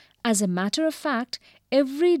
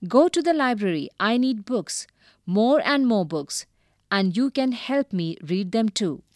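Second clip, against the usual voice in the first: shouting. Acted. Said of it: "already a shouter, just got louder".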